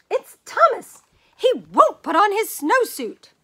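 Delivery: high, loud panicked squeal; frantic complaint. Acted. Teacher in underclothes wailing to principal, frantic. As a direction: shriek it out, desperate for help.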